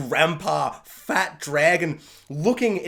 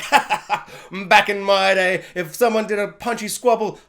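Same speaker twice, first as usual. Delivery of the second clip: bloody laugh. Retold or imitated. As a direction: cackle through the taunt. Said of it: "spitting up blood and laughing".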